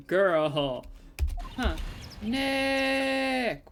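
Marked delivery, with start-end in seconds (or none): 2.2-3.7 sharp raised call of his name; scolding call. Real, not acted. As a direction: call him out to stop. Scolding a friend mid-prank.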